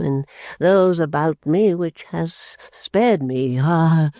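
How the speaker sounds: put-on slow, broken old man; the father mourning his humiliation; grieving father. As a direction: dwell on the shame slowly. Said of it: "Coming out of his fit of grief".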